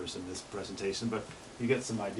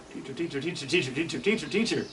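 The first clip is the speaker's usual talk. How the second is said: ovenbird call growing louder each time; building ovenbird call; 4 semitones higher than usual. Shown as a demonstration. Teacher shows ovenbird song swelling, building louder. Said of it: "Getting louder and louder".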